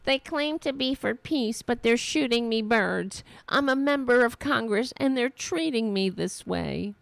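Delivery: mildly hammed-up indignation; mock indignant congresswoman. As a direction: parrot an affronted politician. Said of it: "Did you hear her?".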